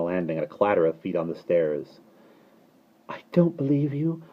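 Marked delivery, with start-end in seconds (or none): 3.1-4.2 wildly insistent little voice; wild baby cry. A narrator's reading. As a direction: wail it as a defiant baby. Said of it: "cried Annabel wildly".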